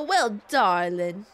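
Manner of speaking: slow mid-Atlantic drawl; mid-Atlantic "darling"; mid-Atlantic accent. Shown as a demonstration. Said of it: "a mid-Atlantic voice".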